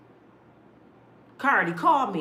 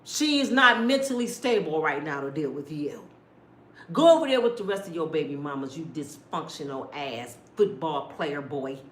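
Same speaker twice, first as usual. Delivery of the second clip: cussing him out; 4 semitones lower than usual. Pretend. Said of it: "I would cuss his ass out".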